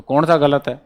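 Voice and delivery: slow question. Shown as a demonstration. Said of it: "कौन सा स्पष्ट गलत दिख रहा है?".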